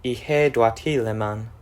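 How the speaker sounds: ihe duati leman said slowly, syllable by syllable; patient teacher demo of ihe duati leman, slowed down; slow conlang demo. Shown as a demonstration. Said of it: "This gives us".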